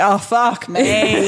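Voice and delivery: slow drawn-out groan. Retold or imitated. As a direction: stretch it out in exasperation. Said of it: "I'm like".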